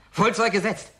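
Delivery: high, thrilled exclamation; gleeful cry of wonder; excited delight. Acted. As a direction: marvel at it like a boy. Admiring the model ship.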